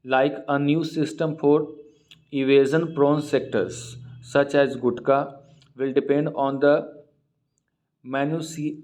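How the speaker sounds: reads the English news line word by word, very slow; slow reading aloud. Acted. Teacher reading the newspaper aloud to students, slow and deliberate. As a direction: read it slowly so students can follow.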